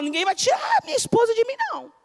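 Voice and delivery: high, fast defiant vow; defiant husband. Acted. Preacher voicing a husband defending his wife, high and fast.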